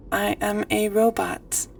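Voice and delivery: slow robot voice. Pretend. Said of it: "We sound like a robot".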